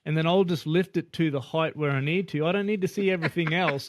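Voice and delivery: mock panicked nurse voice; flustered nurse. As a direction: stop him in a panic, high-pitched. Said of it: "And she goes".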